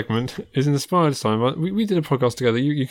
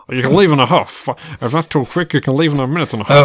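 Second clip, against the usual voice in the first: Groucho Marx; 6 dB louder than usual. Pretend. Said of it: "it's Groucho Marx".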